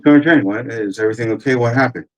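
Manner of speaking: mock startled reply to a superior; startled questioning. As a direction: retell it as startled, anxious questions. Acts out his startled questions to sergeant.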